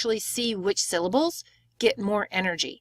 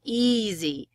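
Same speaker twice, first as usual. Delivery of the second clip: first syllable of "Easy" long and louder, falling off at the end; stress on first syllable. Shown as a demonstration. Teacher modelling syllable stress, "Easy" strong then weak. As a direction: lean on the start of "Easy", let the second syllable drop away. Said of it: "It's longer, it's a little bit louder".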